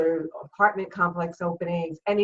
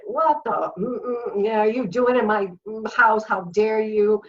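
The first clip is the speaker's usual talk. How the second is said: angry tirade; 3 semitones higher than usual. Retold or imitated. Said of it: "just let 'em have it".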